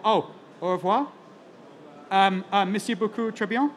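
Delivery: playful French sign-off. Pretend. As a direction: sign off with a jokey French flourish. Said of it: "the last, what, French bit".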